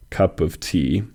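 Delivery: "Cup of tea" with the weight on "tea"; stress on tea. Shown as a demonstration. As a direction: land on the last word, "tea". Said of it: "the word tea receives the emphasis".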